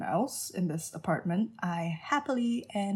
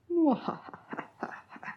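mustache twirling villain laugh; 10 semitones higher than usual. Pretend. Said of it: "My villain laugh is absolutely intimidating".

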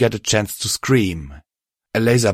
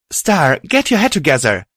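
higher, louder urgent shout; 8 semitones higher, 4 dB louder than usual. Acted. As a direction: shout to snap him out of it. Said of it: "Violet shouted".

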